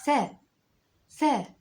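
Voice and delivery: loud, high, clear "ثاء" with fatha, tha; teacher calling out "ثاء" as tha for the class. Shown as a demonstration. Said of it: "لو حطيت عليك فتحة يا حرف الثاء هتبقى إيه؟".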